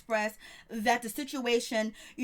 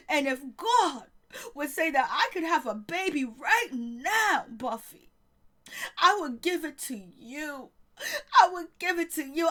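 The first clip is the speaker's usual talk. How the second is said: mock tearful apology; 2 semitones higher than usual.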